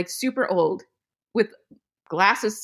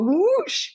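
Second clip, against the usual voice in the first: drawn-out car whoosh; imitated whoosh; 12 semitones higher than usual. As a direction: stretch out a swooping whoosh. Imitates car whipping round.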